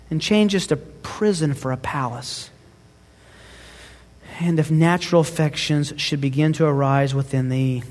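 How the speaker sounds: put-on measured, earnest reading of an old letter; solemn letter reading. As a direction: read it as a wife's devoted farewell. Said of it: "Let me read it for you".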